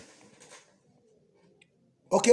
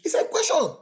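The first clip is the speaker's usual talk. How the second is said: whisper; 8 semitones higher, 3 dB louder than usual. Real, not acted. Whispered aside.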